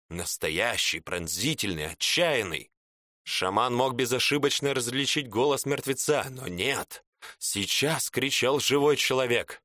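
ordinary delivery, nothing marked

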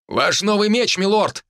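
high, loud ceremonial proclamation; solemn announcement. A narrator's reading. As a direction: present the sword with ceremony. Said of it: "торжественный голос аборигена".

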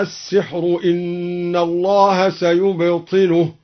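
قرأ السحر إن الله سيبطله as in the Duri reading, slow and drawn out; measured Quranic demo; reading variant. Shown as a demonstration. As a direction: recite the first take of السحر إن الله سيبطله slowly. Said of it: "قال موسى".

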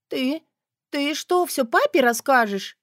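put-on high panicked young woman; alarmed girl. A narrator's reading. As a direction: blurt it out frightened. Girl panics about father.

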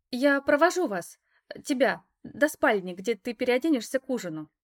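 escort her like an eager hostess; chirpy girl. Acted. Alisa leads her to the bedroom.

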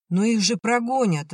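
выше, с горячей надеждой восклицает; воскликни с верой в лучшее; восклицание. A narrator's reading. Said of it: "воскликнула Надя". (Надя горячо восклицает, веря в победу)

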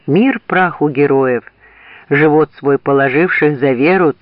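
pompous general rousing his troops; roaring rallying speech. A narrator's reading. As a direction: boom it out like a parade speech. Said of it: "обратился к солдатам с речью". (громкая торжественная речь генерала)

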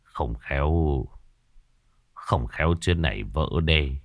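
low, soft sighing words; a worried father sighing to himself; sighing worry. A narrator's reading. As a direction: sigh out the fear of the dike breaking. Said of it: "rồi thở dài".

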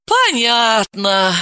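slow tired sigh; worn out by it; weary sigh. Acted. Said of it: "вздохнула она".

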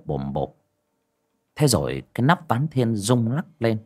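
ordinary delivery

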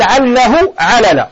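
slowly recited line of verse, each syllable drawn out; slow recitation. Shown as a demonstration. Teacher quoting the poet's verse to students, slowly and deliberately. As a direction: read the poet's words slowly, weighing each one. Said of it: "الناظم قال".

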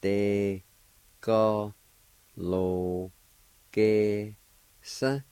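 isolated syllables with clear gaps. Shown as a demonstration. Teacher showing learners the word for fields, syllable by syllable. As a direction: give each syllable on its own, held out. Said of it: "it's pronounced like this".

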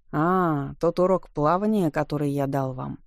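exclaiming. Acted. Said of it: "воскликнул он".

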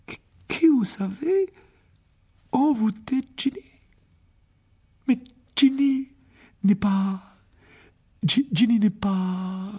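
high, stammering panic; a mother losing her footing, stuttering; panicked mother. Acted. Mother learns her daughter was possessed. (mère paniquée, voix haute et bégayante)

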